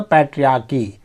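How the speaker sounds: पैट्रियार्की with the R only lightly touched; पैट्रियार्की, R barely sounded, "ch" said as k; soft R. Shown as a demonstration. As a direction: say पैट्रियार्की as "pay-tree-AAR-kee" without rolling the R. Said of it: "आर को पूरा उच्चारित नहीं करते हैं".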